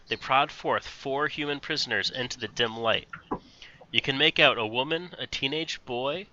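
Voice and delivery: steady read-aloud narration of the boxed text. A narrator's reading. DM reading the box text to the players, measured narration.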